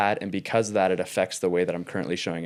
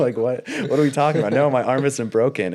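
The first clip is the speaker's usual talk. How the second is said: incredulous; 5 semitones higher, 6 dB louder than usual. Retold or imitated. Retold incredulous reply to therapist.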